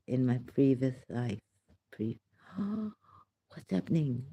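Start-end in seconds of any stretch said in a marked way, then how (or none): 1.9-4.2 startled gasp. Real, not acted. Sudden alarm at her mouth.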